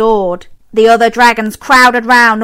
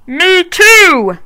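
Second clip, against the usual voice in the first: higher louder eager cry; knight exclaiming; 8 semitones higher, 5 dB louder than usual. A narrator's reading. Knight agreeing with Pearl, loud and eager. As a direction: burst out eagerly. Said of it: "exclaimed the knight".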